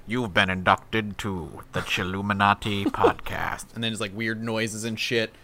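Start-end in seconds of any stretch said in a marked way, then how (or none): 0.1-3.7 low, slow spooky intro voice; ominous computer greeting; creepy announcer voice. Pretend. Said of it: "and it's like".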